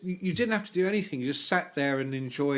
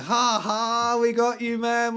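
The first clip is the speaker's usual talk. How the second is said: mocking laugh; 8 semitones higher, 4 dB louder, slower than usual. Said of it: "they were just going".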